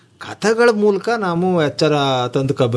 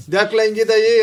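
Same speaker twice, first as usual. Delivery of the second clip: mock-stern, higher-pitched challenge; grandfather's scolding; 6 semitones higher, faster than usual. Grandfather questioning his sons, retold scolding. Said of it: "ಅಂತ ಗದರ್ಸನಂತೆ ನಮ್ ತಾತ".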